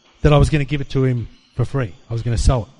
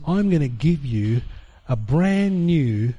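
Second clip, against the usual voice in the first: very slow, soft, measured promise; voice of God; 3 semitones lower, 3 dB quieter, much slower than usual. Retold or imitated. God speaking within his spirit, slow and soft. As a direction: lay out each word like a solemn promise. Voicing God's inner words.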